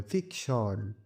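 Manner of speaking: ফিকশন with weight on the first syllable ফিক; stress on ফিক. Shown as a demonstration. Teacher demonstrating capital-letter stress, ফিক stressed in ফিকশন. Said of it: "এখানে জোর দিয়ে পড়তে হবে".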